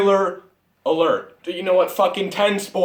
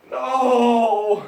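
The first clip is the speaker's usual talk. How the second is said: angry no; 6 semitones higher than usual. Real, not acted. Ranting about the ruined movie.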